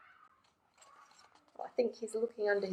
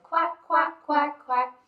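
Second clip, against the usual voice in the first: high, louder quacks; mother duck quacking; 5 semitones higher, 5 dB louder than usual. Acted. Mother duck calling her ducklings, high quacking. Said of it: "Mother duck said".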